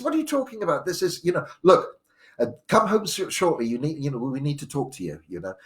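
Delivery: high, urgent mum insisting; mother ordering son home soon; worried mum. Retold or imitated.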